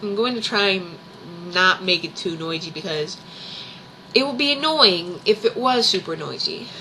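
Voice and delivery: quietly chewing while talking; munching popcorn. Real, not acted. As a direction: keep chewing popcorn between words. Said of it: "sorry, I'm eating popcorn".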